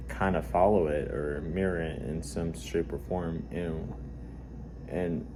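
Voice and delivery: blocked nose, talking through congestion; stuffed nose. Real, not acted. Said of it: "I kind of have a stuffed nose right now".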